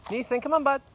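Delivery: high, bright call to the dog. Real, not acted. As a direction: call the dog along, upbeat. Calling the dog mid-walk.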